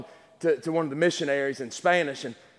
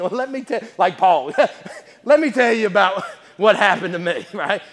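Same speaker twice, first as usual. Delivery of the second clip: chuckling through the words; amused, eager testimony; laughing; 3 semitones higher, 5 dB louder than usual. Real, not acted. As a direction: let laughs break into the line. Chuckles while preaching.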